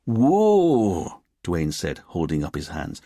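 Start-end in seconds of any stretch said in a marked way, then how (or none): 0.1-1.2 long, high, loud whoa; protesting. Acted. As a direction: stop the boss in his tracks. Officer holds off his angry boss.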